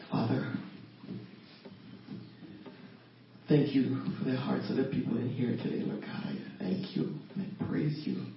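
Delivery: measured, reverent prayer opening. Acted. Woman opening prayer for the people gathered, prayerful. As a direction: address God with pauses between phrases.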